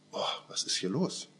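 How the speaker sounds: whispered, amazed at what is happening; a shopper whispering in sudden awe; awed whisper. Pretend. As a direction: breathe it out in wonder, unvoiced. Imagined amazement while shopping.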